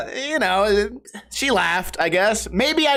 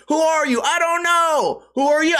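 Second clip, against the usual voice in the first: much higher, dim-witted caveman parody; mock them like grunting cavemen; 9 semitones higher than usual. Mocking the tweakers as cavemen, hammed-up dumb voice. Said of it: "Caveman talking to caveman".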